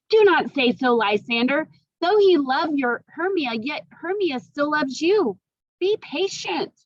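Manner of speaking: put-on high, pleading young woman; pleading Helena. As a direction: beg him to calm down. Helena calms Lysander.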